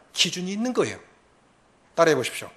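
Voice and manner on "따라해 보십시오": normal talking voice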